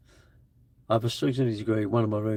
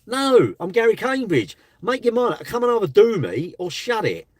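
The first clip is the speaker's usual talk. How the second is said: retold challenge; 9 semitones higher, 4 dB louder than usual. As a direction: throw the dare back at him, pitched up high. Retold confrontation with a troll.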